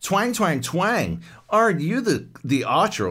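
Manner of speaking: high, loud cartoonish mock voice for the ballplayer; quoting a cringey game cameo, hammed-up high voice; goofy archer cameo. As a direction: ham up the cheesy cameo line. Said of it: "All I remember is he going".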